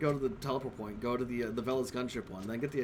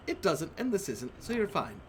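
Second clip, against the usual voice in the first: sweet smile; 3 semitones higher than usual. Acted. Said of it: "she smiles sweetly at you".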